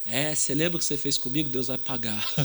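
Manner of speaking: spiteful taunt with a sneer; a petty child's grudge; childish gloating. Acted. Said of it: "minha risada maligna".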